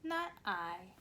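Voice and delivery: put-on slow, lively storybook reading for little kids; reading to children. A narrator's reading. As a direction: read it like story time on the carpet. Reads picture book to children.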